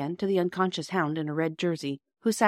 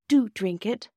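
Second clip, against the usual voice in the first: gentle, higher-pitched coaxing; 6 semitones higher, slower than usual. A narrator's reading. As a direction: coax him kindly. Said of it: "said Bobby gently".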